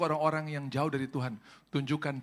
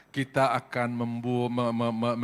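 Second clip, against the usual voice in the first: ordinary talk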